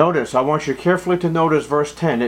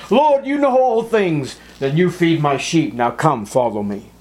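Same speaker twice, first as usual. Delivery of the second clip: higher, louder earnest exchange; fervent reply; 4 semitones higher, 5 dB louder than usual. Acted. Peter answers and Jesus commissions him, fervent. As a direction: answer with full heart, then settle down.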